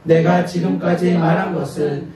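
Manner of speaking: slow, steady group recitation; scripture reading. Acted. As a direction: read the passage together, measured. Congregation reads scripture aloud. (함께 천천히 성경 봉독)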